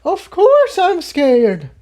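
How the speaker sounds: very high, slow, drawn-out cry; mare shouting back. A narrator's reading. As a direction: throw it back at him, scared and hurt. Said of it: "Tiptoe shouted back".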